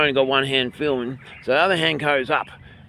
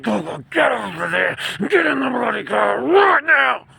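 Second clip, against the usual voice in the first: mock shout at kids; 11 semitones higher than usual. Parent shouting at the kids to get in the car. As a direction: bark it like a parent who means business. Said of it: "clench your teeth".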